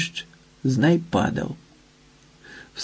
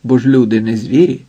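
ordinary delivery, nothing marked

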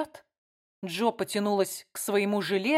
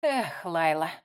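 sigh; 3 semitones lower, slower than usual. A narrator's reading. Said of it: "вздохнула Ким".

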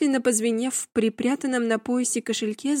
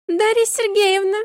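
high squeaky voice, much higher; 10 semitones higher, 6 dB louder than usual. A narrator's reading. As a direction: squeal the name like a rubbery squeaky toy. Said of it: "неожиданно писклявым голосом". (писклявый голос)

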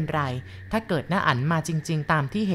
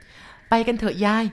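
urging; 5 semitones higher, much slower than usual. Acted. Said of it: "พี่สอนเตือน".

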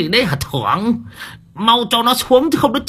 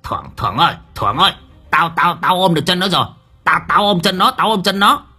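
yelling out; 8 semitones higher, faster than usual. A narrator's reading. Khen yelling to Thưởng while grabbing the legs, rising shout. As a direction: bawl it out, climbing as you go. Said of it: "miệng gào lên".

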